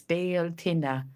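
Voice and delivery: Béal Tine said slowly as two Irish words, BYAL TIN-eh; Béal Tine, each Irish word given carefully and slow; Irish pronunciation. Shown as a demonstration. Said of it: "it's made up of two Irish words".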